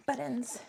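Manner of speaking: "Buttons" with a crisp, clearly pronounced T. Shown as a demonstration. Answering commenters who mock how she says button, "Buttons" with a sounded T. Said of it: "I'm saying buttons with a T".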